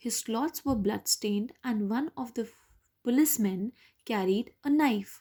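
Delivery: paced read-aloud for learners; slow story reading. A narrator's reading. Teacher reads the story passage aloud to students, slowly.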